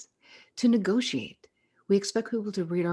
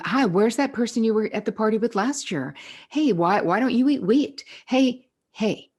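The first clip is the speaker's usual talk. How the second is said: high, loud prying busybody voice; nosy question; 6 semitones higher, 4 dB louder than usual. Retold or imitated. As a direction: ham up a nosy party guest, high and loud. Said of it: "You don't owe someone who wants to know".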